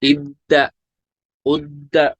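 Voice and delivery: इद्दा, उद्दा with the dd pressed hard; pressed doubling. Shown as a demonstration. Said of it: "उस पे pressure देंगे ज्यादा". (दाल पर ज़ोर के साथ)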